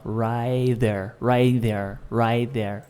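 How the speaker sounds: "Right there" fused into one giant word; linked as one word. Shown as a demonstration. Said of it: "Pensa que é uma coisa só".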